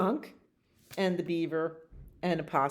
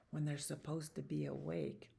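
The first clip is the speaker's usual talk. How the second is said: storyteller whisper; 14 dB quieter than usual. A narrator's reading.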